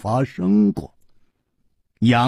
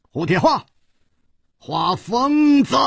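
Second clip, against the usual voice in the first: excited call; 13 semitones higher than usual. A narrator's reading. Chu leaps down on spotting his old friend, excited shout. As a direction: cry out high to an old friend, stretching the nickname. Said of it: "大叫道".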